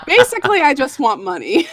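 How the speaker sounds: high, loud laugh through the words. Real, not acted. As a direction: laugh while saying it. Laughing about wanting money.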